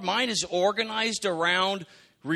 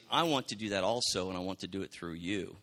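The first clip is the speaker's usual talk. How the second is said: low and much softer, gentle; almost hushed, tender invitation; soft divine voice; 9 semitones lower, 6 dB quieter than usual. Retold or imitated. God answering a praying believer, soft and low. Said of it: "He's saying".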